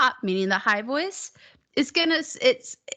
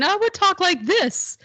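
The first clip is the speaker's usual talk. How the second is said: strange head voice; 3 semitones higher than usual. Shown as a demonstration. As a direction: talk up in your head voice, swooping. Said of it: "This is a strange, this is a very strange voice".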